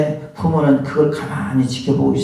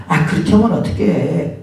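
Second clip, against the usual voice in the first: mock scolding; 5 semitones higher than usual. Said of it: "그 톤 자체나 그런 것들이".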